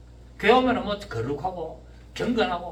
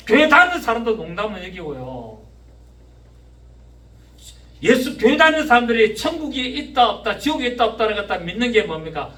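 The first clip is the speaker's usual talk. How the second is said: raised, insistent sermon voice; forceful preaching; 4 semitones higher, 6 dB louder than usual. Real, not acted. Preacher questioning whether churchgoers believe in heaven, forceful preaching. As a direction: challenge the congregation with forceful questions.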